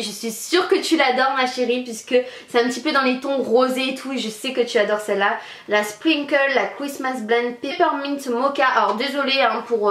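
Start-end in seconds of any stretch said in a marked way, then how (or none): 5.7-8.7 English product names in a French accent. Real, not acted. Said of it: "Mon accent pourri". (anglais avec l'accent français)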